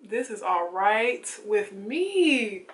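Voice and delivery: very slow, stretched out; smug approval. Pretend. Vlogger to camera, slow smug approval of her look. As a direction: take your time, fully satisfied.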